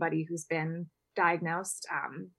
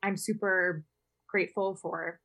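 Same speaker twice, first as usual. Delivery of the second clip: fighting tears while she talks; holding back tears; 3 semitones higher than usual. Real, not acted. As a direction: voice wavering with held-back tears. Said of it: "I can hear it in my voice".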